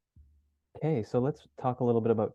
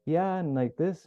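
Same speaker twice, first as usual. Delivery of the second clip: upward tonality; 7 semitones higher, slower than usual. Shown as a demonstration. Showing students a rising, unsure voice. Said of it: "your voice is going up like this a lot".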